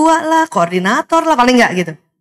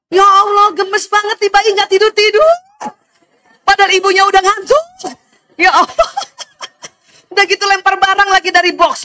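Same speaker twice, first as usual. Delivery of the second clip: higher and louder, a half-acted sigh of despair; exasperated mother; 7 semitones higher, 3 dB louder than usual. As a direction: play the tired mother at her wits' end. Exasperated mother of a wakeful baby.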